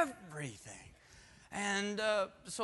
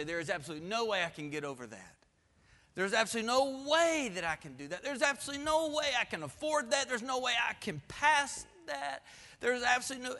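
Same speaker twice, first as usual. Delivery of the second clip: imitating despair, rising; 5 semitones higher, 4 dB louder than usual. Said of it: "and you say".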